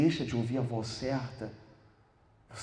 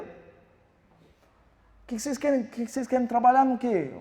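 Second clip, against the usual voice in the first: slow, high, drawn-out question; mocking professor; 11 semitones higher, 8 dB louder, slower than usual. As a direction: drag it out condescendingly. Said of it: "o professor perguntou assim". (imitando o professor, arrastado e agudo)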